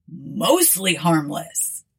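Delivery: slow, sheepish mostly harmless; embarrassed admission. Acted. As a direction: admit it slowly, a bit ashamed. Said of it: "admitted Ford with a slightly embarrassed cough".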